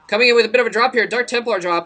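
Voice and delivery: excited. Real, not acted. Caster hypes an incoming drop.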